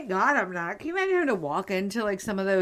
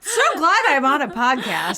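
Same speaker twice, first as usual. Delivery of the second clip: sarcastic, laughing; 5 dB louder than usual. Real, not acted.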